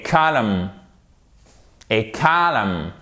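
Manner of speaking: "calm" said "KAH-lum", the word column; silent N. Shown as a demonstration. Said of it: "on ne prononce pas le N".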